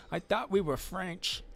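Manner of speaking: high, slow put-on character voice; drawn-out silly character line. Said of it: "that character's voice, by the way, that wasn't me. That was him".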